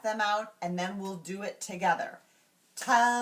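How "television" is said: "Television" broken into four separate beats, louder; syllable by syllable. Shown as a demonstration. Teacher clapping out syllables for students, syllable by syllable. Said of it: "I'll say the word television".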